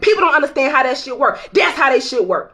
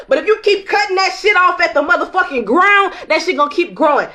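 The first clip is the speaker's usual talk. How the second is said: heated shout; 5 semitones higher than usual. Real, not acted. Preaching emphasis.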